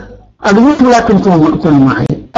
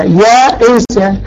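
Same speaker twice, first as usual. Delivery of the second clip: slow demo word; much slower than usual. Shown as a demonstration. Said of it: "الأصل يائسة على الفاعلة".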